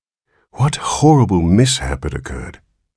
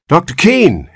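high, loud call across the street; man hurrying toward the doctor calls out; 11 semitones higher, 5 dB louder than usual. A narrator's reading. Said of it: "he called".

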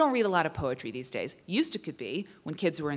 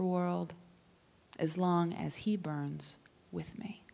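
poem recital. Acted. Poem read aloud at reading.

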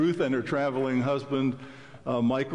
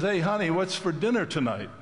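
calling out to the kitchen, raised pitch; mild mock yell across the house; husband calling to his wife in the kitchen, mock yell; retold call to wife; 6 semitones higher than usual. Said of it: "he yells".

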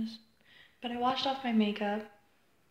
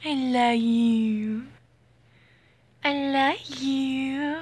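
slow cooing; 3 semitones higher, much slower than usual. Real, not acted. Cooing at the cat.

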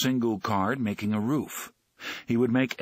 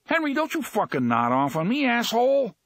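high, louder irritated jab; louder and higher, annoyed thug cursing; angry snap; 13 semitones higher, 3 dB louder than usual. Acted. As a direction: snap him awake with a curse. Thug snapping at dozing Henry.

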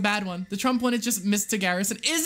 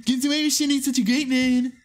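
Trump voice. Acted. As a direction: puff up like a boastful president. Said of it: "my Trump voice is too good".

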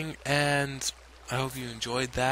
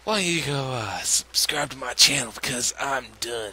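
exasperated; 8 dB louder than usual. Real, not acted. Fed up sign-off.

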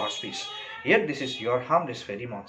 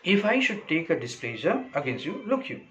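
mildly acted anger, pitched up; angry threat; 5 semitones higher than usual. Stefano warning Caliban of his displeasure, mildly angry. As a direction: lift the voice into a warning, peaking at the end. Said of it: "Then Stefano shows anger".

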